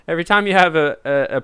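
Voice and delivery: laughing through the words; giggling as you restart the sentence; words broken by a real laugh. Real, not acted. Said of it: "someone made a joke on the chat".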